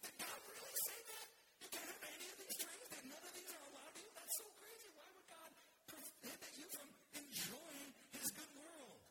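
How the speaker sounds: very high, incredulous serpent; great incredulity. Acted. Serpent questioning Eve about God, high-pitched incredulity. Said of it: "asked with great incre-, incredulity".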